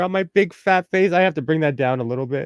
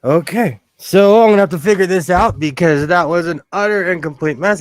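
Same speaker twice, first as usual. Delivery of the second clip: pins in mouth; 2 semitones higher, 9 dB louder, faster than usual. Real, not acted. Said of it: "I have a pin in my mouth".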